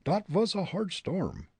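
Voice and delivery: put-on high German-accented musing; German accent talking to himself. Fritz alone on the roof, in a German accent. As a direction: grumble at the storm in a thick German accent. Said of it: "he soliloquized".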